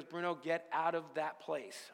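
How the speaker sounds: slow, deliberate retold warning; emphatic warning. Buddy warns him off the job, slow emphatic warning. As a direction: spell it out slowly for a friend.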